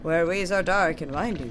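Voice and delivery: grandiose flea showman, lightly voiced; a hint of a pompous caravan leader; Flea Master Mushka. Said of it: "know that I am Flea Master Mushka".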